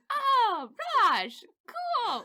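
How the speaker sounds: high, giggling, embarrassed farewell; mortified laughing goodbye. Retold or imitated. Customer fleeing the clerk after her mistake, high and laughing. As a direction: laugh through the awkward exit.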